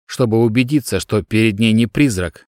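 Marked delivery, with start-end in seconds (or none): none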